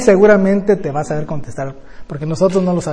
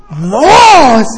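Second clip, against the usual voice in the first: race count; 6 semitones higher, 9 dB louder than usual. Retold or imitated. Grandpa starting a race count.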